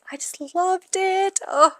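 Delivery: high, overwhelmed gush; high-pitched emotional outburst; getting emotional. Real, not acted. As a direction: let the voice soar, moved by how good it was. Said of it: "I'm getting emotional thinking".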